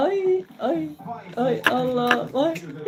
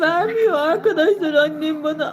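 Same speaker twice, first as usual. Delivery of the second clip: mock whine; 4 semitones higher than usual. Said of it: "ağlayacağım şimdi ya".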